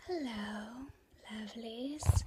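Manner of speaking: soft, eerie, creepy tone. Speaker opens by greeting the audience as lovelies, creepy greeting. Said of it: "that was really creepy".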